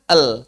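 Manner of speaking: el said like the Latin letter L; a flat, wrong el. Shown as a demonstration. Teacher mocks the wrong reading of lam. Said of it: "Jangan dibaca".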